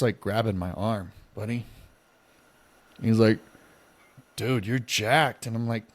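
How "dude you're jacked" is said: put-on slow, drawn-out drunk compliment. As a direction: drag it out drunkenly. Drunk passenger grabbing arm.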